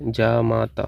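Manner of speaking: जामाता with every 'aa' held long, jaa-maa-taa; long vowels. Shown as a demonstration. Teacher showing students the spelling, long vowels in जामाता. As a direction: draw out all three long vowels in जामाता. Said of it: "यहाँ पे बड़ा बड़ा रहेगा सब".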